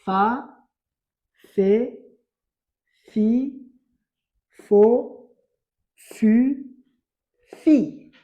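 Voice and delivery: fa to fi called out loud; teacher repeating the syllables; repeated syllable drill. Shown as a demonstration. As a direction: repeat the row loudly for the pupils. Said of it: "Je le répète".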